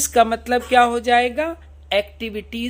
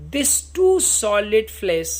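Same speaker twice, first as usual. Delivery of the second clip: slow, drawn-out reading of Shakespeare; slow recitation; much slower than usual. Shown as a demonstration. Teacher reading Hamlet's soliloquy to students, slow solemn recitation. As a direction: recite each word slowly and solemnly.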